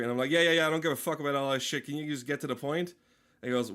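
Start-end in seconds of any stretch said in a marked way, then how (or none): 0.3-2.9 rattled off fast to cut him short; impatient rapid brush-off. Retold or imitated. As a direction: hurry him along, fed up. Cutting off the professor.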